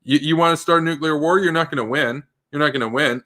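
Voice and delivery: cocky threat, rattled off fast; defiant taunt. Pretend. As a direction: sneer it at them, daring a fight. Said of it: "You just say".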